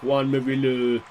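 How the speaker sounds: attempted Yorkshire accent on a name; tentative stab at Yorkshire. Shown as a demonstration. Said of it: "say in a Yorkshire accent".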